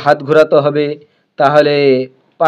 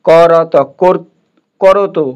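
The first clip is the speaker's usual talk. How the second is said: slow sounding out; much slower than usual. Shown as a demonstration. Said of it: "আমরা তো বাংলা জানি".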